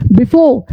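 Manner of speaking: "before" ending on an open aw, no R; silent R. Shown as a demonstration. English teacher lists example words for learners, final R silent. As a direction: say "before" as bi-FAW. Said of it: "आर नहीं पड़ जाएगा".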